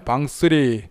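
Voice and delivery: 방쓰리 said slowly with the R sound kept; Korean reading. Shown as a demonstration. Teaching Korean viewers the Korean-style reading, slow and careful. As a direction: spell out 방쓰리 slowly, every letter sounded. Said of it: "한국식으로 얘기하면 방쓰리 이렇게 읽어야".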